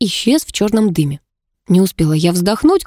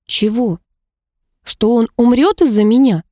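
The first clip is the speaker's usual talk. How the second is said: desperate cry; 4 semitones higher than usual. A narrator's reading. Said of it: "вскрикнула я в отчаянии".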